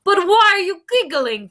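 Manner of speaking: ordinary delivery, nothing marked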